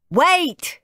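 high, loud call of wait; shouting. A narrator's reading. Dad tries to stop the boys, shouting. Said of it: "shouted Dad".

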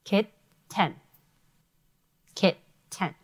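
Kitten said with both syllables clearly separated; syllable counting. Shown as a demonstration. Teacher counting syllables aloud. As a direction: tap out Kit and ten in Kitten. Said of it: "How many syllables".

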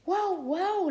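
high, loud barking woof; dog bark. Acted. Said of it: "Ladraba Bizcocho". (ladrido de perro agudo y fuerte)

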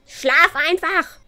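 exasperated order. Pretend. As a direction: order the child to bed at the end of your rope. Orders the Sim child to sleep.

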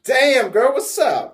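hyped selfie greeting. Acted. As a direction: greet the camera all pumped.

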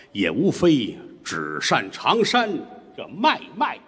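slow, measured storyteller's poem; opening poem of a storytelling set; verse recitation. Acted. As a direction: intone each phrase slowly.

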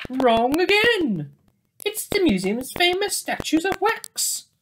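teasing correction. A narrator's reading. Narrator mocks the mistake.

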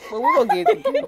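high, giggly repeat; giggling this time; laughing. Real, not acted. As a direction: laugh through the same promise. Same words laughing.

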